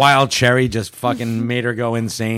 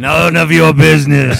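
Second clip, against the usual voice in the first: low gravel vigilante growl; 4 dB louder than usual. Acted. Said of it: "that weird fucking gravelly voice accent".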